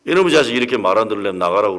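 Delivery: retold angry outburst, fast; furious father. Preacher retelling his father's outburst at his son, fast angry. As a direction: snap it out like a father losing his temper. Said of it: "화를 버럭 내신 거예요".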